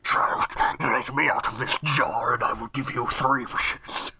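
slow, otherworldly voice from the jar; trapped in a bottle; jar demon voice. Acted.

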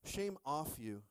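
"Shame off you" said slowly, each word spaced; slow emphatic. Shown as a demonstration. Pastor modeling the phrase for the congregation, slow. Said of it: "somebody look at your neighbor and say".

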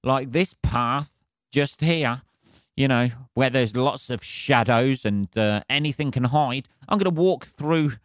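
a light touch of a dopey prey voice; dumb prey. Retold or imitated. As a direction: mildly voice an oblivious animal strolling into danger. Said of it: "They always do something stupid".

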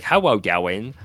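"How well going" said like "hewwo", Ls turned to Ws; W-speak imitation. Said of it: "She, like, spoke with W's".

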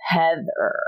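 falling, knowing recognition of the name; loaded recognition. Retold or imitated. Recognizing Heather to her old college friend, knowing fall. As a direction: let the name land as old memories flood back. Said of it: "Why did you say it like that?".

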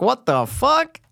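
high-pitched mock disbelief; retold astonishment. Retelling learning an actor was from Australia, astonished.

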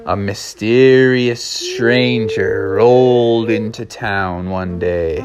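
slow, drawn-out storyteller; suspenseful story narration. A narrator's reading. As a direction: stretch out the mysterious arrival. Narrates the stranger's arrival.

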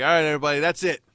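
hammed-up rallying speech; mock household announcement. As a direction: announce new house rules to everyone. Mimics a rallying family announcement.

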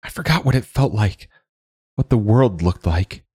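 high, birdlike whistling voice; airy birdlike man's voice. Acted. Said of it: "he says in a whistling voice".

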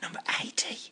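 hushed whisper of the number. Pretend. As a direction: whisper it under your breath. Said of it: "Why are we whispering?".

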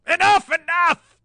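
very high, loud, drawn-out shriek; pained scream. A narrator's reading. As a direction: scream for the torture to stop. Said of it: "he screamed".

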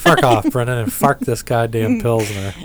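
fark for fuck, broad Midwestern vowel; mock Midwestern accent. Host riffs on Midwestern accent swearing. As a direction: keep the joke accent going with fark. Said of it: "That's my Midwestern accent".

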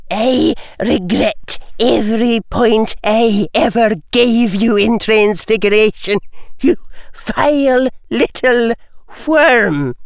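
cold contempt. A narrator's reading. McGonagall rebuking Lucius publicly.

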